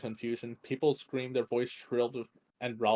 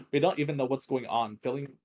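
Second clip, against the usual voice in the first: agitated; 3 semitones higher, 4 dB louder than usual. Acted. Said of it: "his tone growing more agitated".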